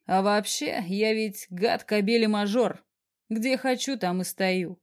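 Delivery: a hint of husky boss, lazily slow; cocky boss lightly roughening his voice. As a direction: boss teasing Sasha, a touch husky and slow. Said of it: "добавил хриплым голосом".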